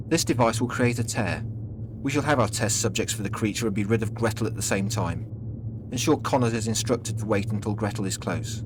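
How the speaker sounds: a hint of a scheming commander; commanding boss. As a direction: issue orders with some authority.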